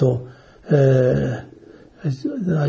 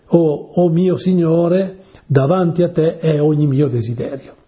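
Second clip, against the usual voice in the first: prayerful invocation; 3 semitones higher than usual. Acted. Prayerful recital of psalm.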